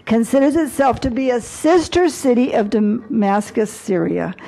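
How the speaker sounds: a formal resolution read aloud with weight; formal proclamation. Acted. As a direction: proclaim it like an official decree. Reads out resolution text.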